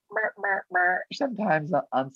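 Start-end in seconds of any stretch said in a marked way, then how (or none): 0.1-0.7 squeaky high mer mer for gossip; mock bickering noise. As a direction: mimic petty set drama with a much higher squeak. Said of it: "there was a lot of".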